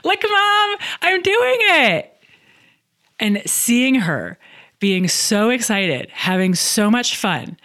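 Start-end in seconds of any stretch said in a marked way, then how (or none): 0.0-2.2 very high, loud imitation of a thrilled kid; Hazel, gleeful child. Mom imitates daughter on bike, gleeful squeal. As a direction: squeal it like a child zooming downhill, stretched out. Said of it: "and she goes".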